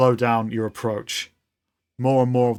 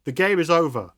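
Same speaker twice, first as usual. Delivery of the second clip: robot nanny referee calling out; 5 semitones higher than usual. Acted. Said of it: "starts hitting against her and saying".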